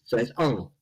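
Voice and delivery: Hull said as "ull" with no H sound; dropped H. Shown as a demonstration. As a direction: drop the H in Hull like a local. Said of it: "in Hull they don't pronounce their H's".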